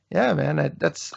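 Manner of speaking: words cut off by hiccups; hiccuping mid-sentence. Real, not acted. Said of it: "now I got the hiccups".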